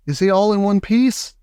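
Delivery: high worried cry; anxious cry. A narrator's reading. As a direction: plead for an answer. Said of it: "cried Missus T V".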